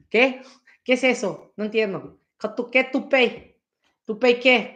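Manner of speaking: put-on confused kid in Spanish. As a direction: act the puzzled kid who never heard the word. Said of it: "And I was like".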